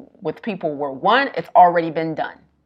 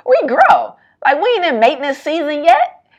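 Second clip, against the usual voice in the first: mock yell; 8 semitones higher, 6 dB louder than usual. Retold yelling at friend.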